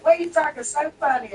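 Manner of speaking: amused teasing. Retold or imitated. Jersey friends laughing at her talk, imitated amused teasing. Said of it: "they would just laugh at how I talked".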